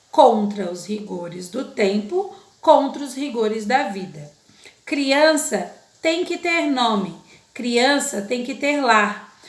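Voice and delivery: put-on slow, measured children's poem reading. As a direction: read the verses slowly to the kids. (lendo o poema devagar para as crianças)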